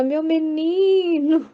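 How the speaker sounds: "Meu menino" drawn out very slowly and tenderly; "Meu menino" said slow and affectionate, like a mother's pet name; intimate and tender. Shown as a demonstration. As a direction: linger lovingly on "Meu menino", as if cradling a child. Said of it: "Porque ela tem intimidade com Jesus".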